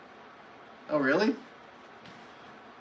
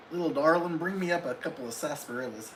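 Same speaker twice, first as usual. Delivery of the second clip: lightly put-on, hammy cowboy accent; a half-hearted cowboy accent calling for sarsaparillas; a faint cowboy accent, barely off her own voice; bad cowboy accent. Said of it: "That's my really bad cowboy accent".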